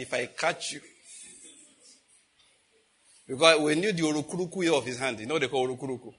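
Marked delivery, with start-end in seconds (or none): 0.0-0.8 muttered inner thought. Retold or imitated. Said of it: "I said in my mind".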